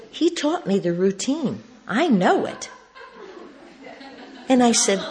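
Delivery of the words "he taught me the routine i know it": rising to a high, proud finish; delighted reveal. Retold or imitated. Wife telling the speaker she learned the routine, delighted. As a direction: share a gleeful secret.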